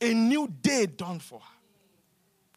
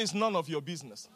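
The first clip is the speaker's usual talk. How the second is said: said to neighbor; 6 semitones lower, 6 dB quieter, faster than usual. Shown as a demonstration. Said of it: "Tell your neighbor, say".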